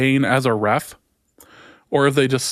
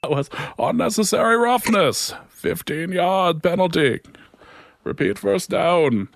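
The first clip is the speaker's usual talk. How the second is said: referee announcement; 5 dB quieter than usual. Retold or imitated. Imitating NFL referee announcement.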